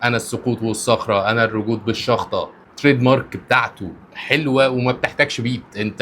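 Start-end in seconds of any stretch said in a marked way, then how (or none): 0.0-2.5 reciting the lyrics. Shown as a demonstration. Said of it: "قولها زي ما أنا قلتها كده".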